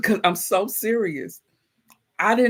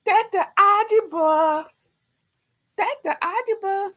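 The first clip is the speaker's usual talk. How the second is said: much higher, put-on announcing voice; mock announcer; 14 semitones higher than usual. Presenting the snake chef to viewers in a mock announcer voice. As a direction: hype up the name like a showman.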